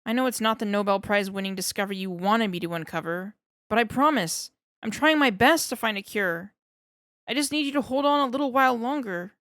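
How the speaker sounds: fast, rising earnest promise; begging his friend to hold on; earnest pleading scientist. Acted.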